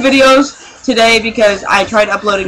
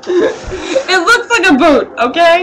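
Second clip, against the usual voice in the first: high, slow, laughing through the words; giggling while insisting; half-laughing, half-whining defence; laughing protest; 5 semitones higher, slower than usual. Real, not acted. Friends teasing about her shoe.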